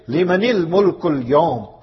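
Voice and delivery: solemn majestic proclamation, drawn out; awesome divine call. Shown as a demonstration. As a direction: let "Limanil mulkul yawm" roll out slowly with awe. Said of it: "in that awesome voice or in a very frightened voice".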